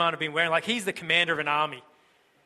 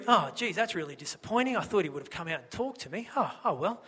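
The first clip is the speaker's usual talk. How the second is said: mock mild disappointment; 4 dB quieter than usual. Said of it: "that's not how he's going to have responded".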